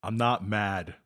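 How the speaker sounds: soft, let-down parental voice; a parent scolding gently; disappointed parent. Pretend.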